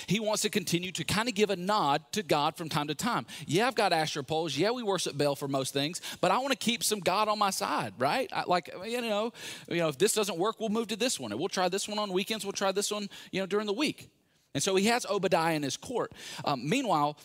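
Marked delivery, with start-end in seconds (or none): 3.4-14.1 higher, casual voicing of a hedging king; light mock voice of a king keeping God as backup; mock Ahab. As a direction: play a two-faced king hedging his bets, lightly. Preacher voicing wicked king Ahab.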